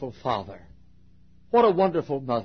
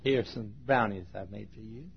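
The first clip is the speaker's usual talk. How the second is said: mock guy; 4 semitones lower, 8 dB quieter than usual. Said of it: "Guy walked by ... he said".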